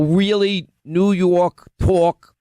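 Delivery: slow, exaggerated New York accent; heavy, drawn-out New York talk; thick New York accent. Shown as a demonstration. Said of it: "had to work to at least try and attempt to lessen".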